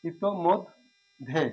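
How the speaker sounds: ইতোমধ্যে stretched out very slowly, ending falling; slow clear pronunciation. Shown as a demonstration. Teacher modelling the correct word, very slowly. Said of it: "এটা হচ্ছে সঠিক উচ্চারণ".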